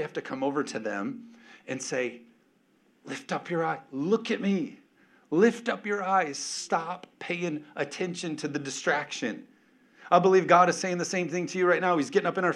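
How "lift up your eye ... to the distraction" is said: put-on parent calling kid.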